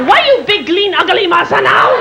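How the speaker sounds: imitated East Asian accent. Housekeeper to Hulk, scolding in imitated East Asian accent. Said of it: "a little Oriental woman".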